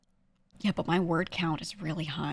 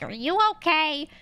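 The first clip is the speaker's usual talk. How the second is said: high, louder, drawn-out worried question; mock concern; 9 semitones higher, 5 dB louder, slower than usual. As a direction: play up the concern, pitched way up. People's worried reaction acted out.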